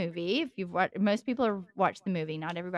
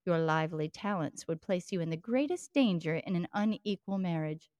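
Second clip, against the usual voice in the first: a hint of a British father, gentle and earnest; British accent. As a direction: read in a lightly put-on British accent, as the father. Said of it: "try to read this in my best British accent".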